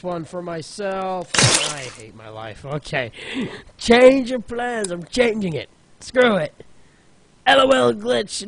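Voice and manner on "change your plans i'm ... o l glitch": louder and higher, fed up and snapping; fed-up shouting at the game; loud frustrated outburst. Real, not acted. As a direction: bark it out, done with this level. Frustrated, quitting the level.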